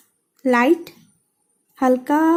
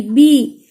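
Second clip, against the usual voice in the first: बी said with a firm, stressed push; 4 dB louder than usual. Shown as a demonstration. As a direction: hit बी with stress, a bit louder. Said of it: "बी का pronunciation लेने वक्त stress होता है".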